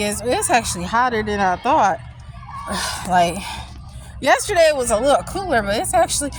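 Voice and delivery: out of breath, talking while walking; winded, catching breath between phrases. Real, not acted. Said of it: "that's probably why I'm out of breath".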